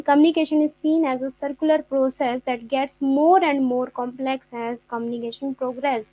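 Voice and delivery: slow, deliberate reading of a definition; slow textbook reading. Acted. Teacher slowly reads the definition to her students. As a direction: read every word out slowly, like dictation.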